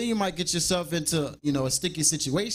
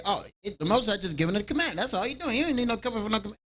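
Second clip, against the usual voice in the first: mock dismissive brother; 4 semitones higher, faster than usual. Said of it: "brothers might say".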